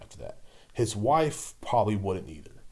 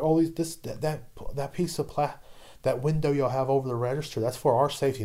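mocking customer; 6 semitones higher than usual. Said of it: "they're like".

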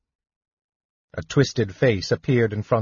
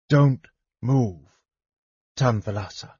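ordering. A narrator's reading. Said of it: "Lorana ordered".

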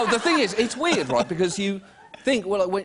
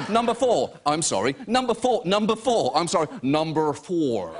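sedated John Wayne. Retold or imitated. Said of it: "you talk like a sedated John Wayne".

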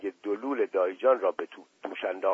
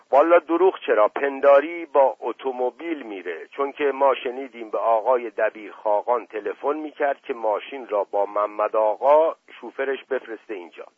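put-on broad Isfahani servant accent, raised; 4 dB louder than usual. Mash Qasem answers again.

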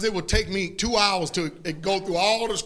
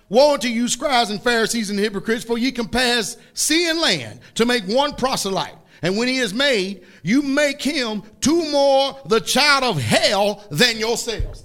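forceful preacher's scripture rebuke; Jesus rebuking hypocrites; 4 dB louder than usual. Retold or imitated. Preacher quoting Jesus to the scribes, stern rebuke. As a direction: drive each phrase home, pausing between. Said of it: "that's how Jesus talked".

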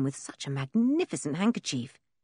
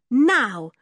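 very slow, louder firm command; 9 semitones higher, 7 dB louder, much slower than usual. A narrator's reading. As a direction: lay down the law, trying not to laugh. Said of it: "commanded George".

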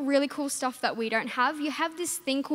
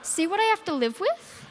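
laughing; 6 semitones higher, 3 dB louder than usual. Real, not acted. Exasperated laughing aside.

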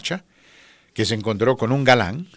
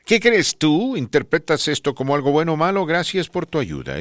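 put-on quoting the young woman; 7 semitones higher than usual. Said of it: "Me pregunta ella".

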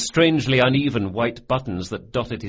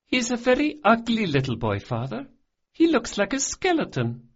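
put-on much higher, blunt child's voice; little girl voice; 13 semitones higher than usual. A narrator's reading. Daughter judging the boy to her father, high and blunt. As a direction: say it flatly like a rude child.

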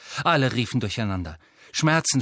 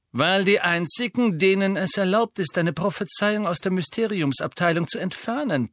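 Malfoy voice; 7 semitones higher than usual. Acted. Malfoy explains smugly.

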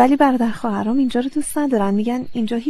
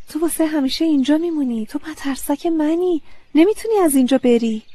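higher, startled questions; surprised; 6 semitones higher, 3 dB louder than usual. Acted. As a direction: ask in disbelief, voice rising. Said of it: "با تعجب گفتم".

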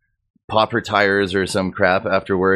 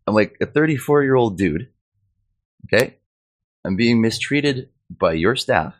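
higher-pitched retold complaint; aggrieved protest to management, retold; indignant; 5 semitones higher than usual. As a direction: stand up for yourself, exasperated. Retold complaint to regional office man.

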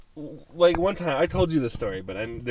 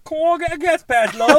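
much higher, louder put-on singer impression; 14 dB louder than usual. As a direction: belt it out like a singer asking for a pass. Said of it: "Can you say it in a singer's voice?".

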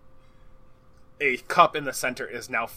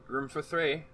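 loud sassy barmaid calls; 4 semitones higher, 5 dB quieter than usual. Acted. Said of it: "the barmaid looks up".

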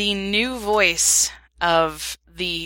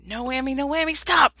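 rising chant of no whammy, then a higher yelled stop; game show sound effect; 8 semitones higher than usual. Retold or imitated. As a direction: call it like the Press Your Luck board. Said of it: "I need a little thing that goes".

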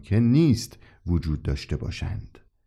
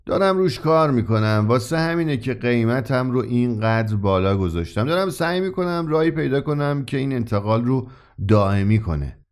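a hint of longing, understated; mild regret behind the words; wistful. Old shopkeeper wistfully explaining his unfinished work. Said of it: "با لحنی آمیخته با حسرت جواب داد".

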